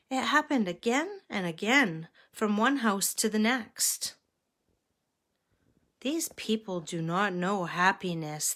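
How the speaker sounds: measured picture-book reading; story narration. A narrator's reading. Reader telling children of three travelling monks, story narration. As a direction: read a children's story aloud.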